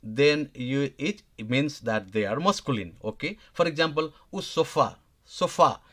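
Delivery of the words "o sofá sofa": "sofá" with the weight on the last syllable; stressed final vowel. Shown as a demonstration. Teacher giving an example of stressed endings, "sofá" stressed on its final vowel. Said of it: "see these stressed vowels ending".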